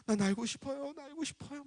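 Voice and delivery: very high, soft mock child wail; wailing child spirit. Spirit child begging dad for flight, high imitated wail. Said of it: "막 그러는 거야".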